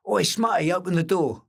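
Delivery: high, loud call through a door; Jimmy calling through the door. Retold or imitated. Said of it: "He said".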